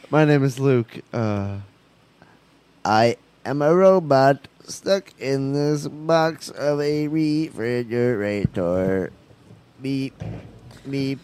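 slow, even mock robot. Stuck in the box, pleading in a slow mock robot voice. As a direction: spell each word out like a stiff machine. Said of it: "pretending to be a robot".

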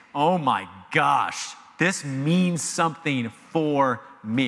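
stunned, drawn out; slow hushed shock; slow, shaken realization. Retold or imitated. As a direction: say it as if struck to the core. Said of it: "they were panicked".

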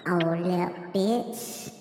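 drawn-out, relishing mock menace; mock threats. Snacker threatening his plate of dessert, playful menace. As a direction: threaten the dessert like it can hear you. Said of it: "I be making threats".

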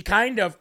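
"kind" hit harder and drawn out before a lighter "of"; stress on kind. Shown as a demonstration. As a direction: lean on the word "kind". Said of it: "emphasize the word kind".

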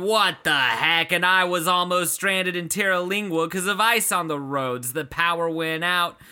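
mock outrage. Reading an angry one-star park review to co-host, mock outrage. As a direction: read it like a fed-up complainer, hammed-up.

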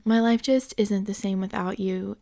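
coaxing ex, a little awkward laugh first; sly ex pleading softly; ex trying to win you back. Pretend. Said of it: "Do I sound like your ex trying to get back with you yet?".

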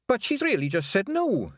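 high-pitched outburst; protesting, pitched sharply up; bursting out. A narrator's reading. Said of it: "Fionn burst out".

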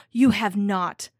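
a shocked cry of protest. A narrator's reading. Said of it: "cried Catherine".

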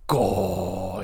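low, soft, long-drawn gasp of awe; awed. Retold or imitated. Player reacting to a huge game world, awed. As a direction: stretch it out, overwhelmed by the scale.

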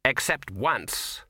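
slow, heavy and grim. A narrator's reading. Ginger answers the patrician in a slow, grim voice. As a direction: let the memory weigh on it, slowly. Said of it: "said Ginger grimly".

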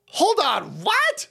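a liberal suddenly startled; mock shock. Liberals reacting to the news, in mock shock. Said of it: "liberals are like".

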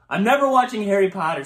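teased friend laughing back over the movie joke. Real, not acted. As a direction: say it while still laughing. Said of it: "laughing defiance".

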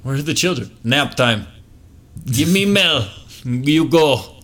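high mock creepy voice; a spooky caretaker voice; creepy daycare voice.

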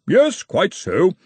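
gently wheezing. Acted. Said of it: "wheezing gently".

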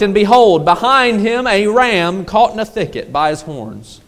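measured, solemn Bible reading; scripture reading. Acted. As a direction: read the passage with reverence. Reads scripture aloud.

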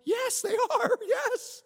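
very high, loud acted-out yell; hammed-up, elated shouting; excited shout. Answering excited stranger, acted out.

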